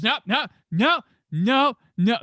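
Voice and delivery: high, loud volley of no's; retold alarmed refusal. Passenger spotting a cop at the restaurant, high alarmed refusal.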